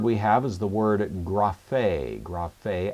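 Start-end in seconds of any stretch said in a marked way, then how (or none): 1.2-2.2 graphe said slowly as grah-FAY, stress on the final syllable; stress on last syllable. Shown as a demonstration. Teacher introducing the next word, graphe accented on the ultima, grah-FAY. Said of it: "accent on the ultima here". 2.2-2.9 graphe repeated as grah-FAY, final syllable stressed; stress on last syllable. Shown as a demonstration. Teacher repeating the word for students, graphe with accent on the ultima, grah-FAY. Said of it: "accent on the ultima here".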